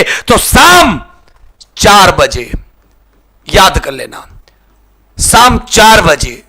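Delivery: slow, emphatic timetable drill; drawn-out emphasis. Acted. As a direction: stretch out तो शाम, then drop into चार बजे. Teacher drilling class time emphatically.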